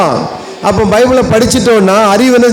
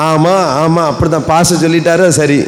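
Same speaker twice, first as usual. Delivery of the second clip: lower, meek mocking yes-man; mock blind agreement; 3 semitones lower than usual. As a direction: parrot agreement without thinking. (கண்மூடித்தனமான ஒப்புதலைக் கேலி செய்யும் தாழ்ந்த குரல்)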